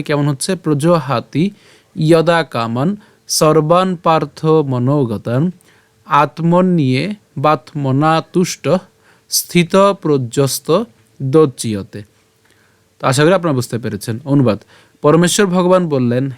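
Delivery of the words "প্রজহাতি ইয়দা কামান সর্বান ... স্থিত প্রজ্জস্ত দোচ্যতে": slow, measured Sanskrit recitation; full verse pronunciation. Shown as a demonstration. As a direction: recite the whole verse phrase by phrase, vowels drawn out. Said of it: "পুরোটি যদি আবার প্রথম থেকে উচ্চারণ করি". (পুরো শ্লোক ধীরে টেনে পাঠ)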